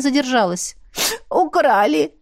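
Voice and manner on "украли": a higher, tearful complaint; complaining aunt. A narrator's reading. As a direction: wail the loss to a stranger. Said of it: "пожаловалась ей тётка".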